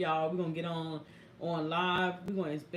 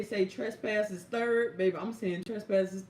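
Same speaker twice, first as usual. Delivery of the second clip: laughing; 3 semitones higher than usual. Real, not acted. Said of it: "I do whatever she say".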